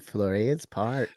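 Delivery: Flores Park in a Mexican accent. Shown as a demonstration. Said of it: "read that again in the Mexican accent".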